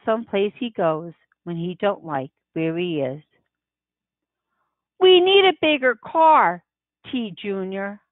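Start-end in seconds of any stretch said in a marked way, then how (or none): 5.0-8.0 lightly voiced mother, pushing for a bigger car; a hint of a fed-up wife, raised at first; Mama complaining. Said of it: "Mama says".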